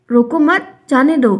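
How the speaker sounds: "रोको मत" run together high, then a stop before "जाने दो"; group मत with रोको, then release "जाने दो"; pause after मत. Shown as a demonstration. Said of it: "यहाँ पर अलग मीनिंग दे दिया". (मत के बाद विराम)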